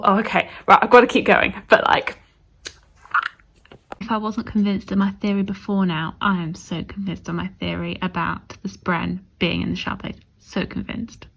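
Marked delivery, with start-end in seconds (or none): 6.2-11.3 dropping to a near whisper, intense; hushed conviction. Real, not acted. Whispering her theory to viewers, softly certain. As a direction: lean in and murmur it like a secret.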